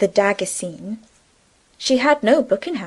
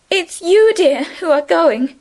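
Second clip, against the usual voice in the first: sadly; 8 semitones higher, 4 dB louder, slower than usual. A narrator's reading. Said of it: "Emily answered sadly".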